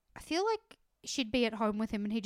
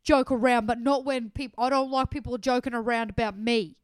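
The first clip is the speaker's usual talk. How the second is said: mock whiny contestant; 9 dB louder than usual. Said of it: "He's like".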